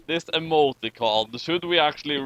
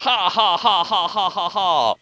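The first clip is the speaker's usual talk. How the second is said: mock villain laugh; 2 semitones higher, 3 dB louder than usual. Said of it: "they said as they hailed the Enterprise".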